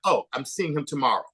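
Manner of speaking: mild imitation of an accent; lightly put-on, casually name-dropping accent; Iman. Host acts out fashion queen's easy reply, lightly imitated accent. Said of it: "That's my bad Iman, like, accent".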